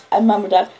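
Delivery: ordinary delivery, nothing marked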